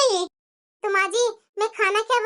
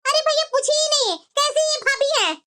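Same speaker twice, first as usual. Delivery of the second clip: worked-up, indignant outburst; angry complaint; 2 semitones higher than usual. Acted. Sister vents to her brother about bhabhi, angry. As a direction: vent crossly to a brother. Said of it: "इतना गुस्सा क्यों है?".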